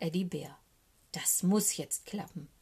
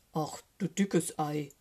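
slow, drawn-out bear's amazement; amazed; 3 semitones lower, slower than usual. A narrator's reading. Eddie Bär hears about the monster, slow amazement. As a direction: draw it out in mild astonishment. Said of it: "wundert sich Eddie Bär".

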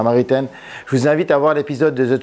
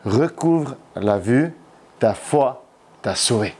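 calm, tender Jesus; 2 semitones lower, slower than usual. Acted. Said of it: "Et Jésus lui dit".

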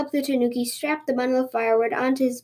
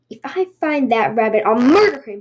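mild growl, swelling loud on the threat; angry growl; 4 dB louder than usual. Acted. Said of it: "he growled".

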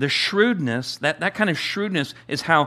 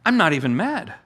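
amused rich man, a bit higher; delighted, unbothered boss; the old master's reaction; 3 semitones higher than usual. Retold or imitated. Master praising the shrewd servant, amused. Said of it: "He's, he's like".

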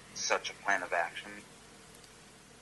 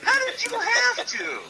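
louder, much higher, slower and incredulous; 9 dB louder than usual. Real, not acted. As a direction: stretch the question out in disbelief. Repeats the question in disbelief.

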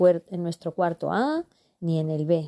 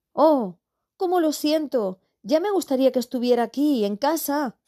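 put-on teen girl voice; 7 semitones higher than usual. Teen sister feigns sympathy.

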